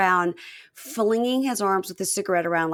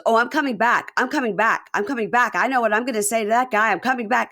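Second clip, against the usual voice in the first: raised, insistent repetition; mock exasperation; 4 semitones higher, 4 dB louder than usual. Husband telling wife he's coming back, mock exasperation. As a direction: imitate an irritated husband, hammering each repeat. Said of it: "So he goes".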